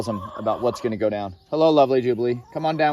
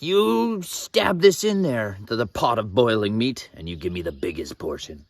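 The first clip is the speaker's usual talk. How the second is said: threatening priest. Retold or imitated. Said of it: "They were threatening people, like".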